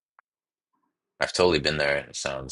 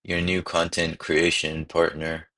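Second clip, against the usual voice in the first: mock marketing voice; slower than usual. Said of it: "it sounds too markety".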